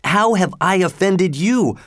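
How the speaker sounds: demanding fisherman. A narrator's reading. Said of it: "demanded the fisherman".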